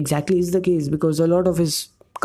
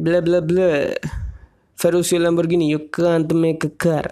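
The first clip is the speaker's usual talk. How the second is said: put-on Russian accent; 2 semitones higher than usual. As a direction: play Enzo with a Russian accent. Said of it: "I am speaking in Russian accent".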